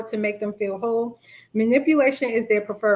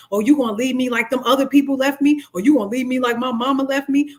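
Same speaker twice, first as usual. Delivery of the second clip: mock guilt trip; faster than usual. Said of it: "they will make you feel guilty".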